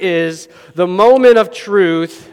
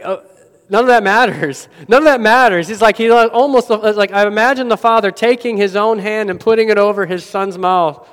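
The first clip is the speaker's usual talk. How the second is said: hint of a loving father; 3 semitones higher, 3 dB louder than usual. Father cuts off son's confession.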